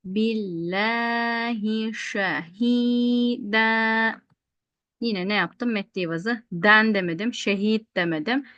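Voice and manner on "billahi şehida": slow drawn-out chanted recitation; Quran recitation. Shown as a demonstration. Teacher reciting the verse for students. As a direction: chant each vowel long and even. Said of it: "teacher recites Quran verse".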